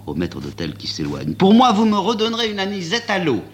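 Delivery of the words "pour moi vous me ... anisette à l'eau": put-on high, calm young woman voice; a calm young woman ordering. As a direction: order it coolly, unbothered.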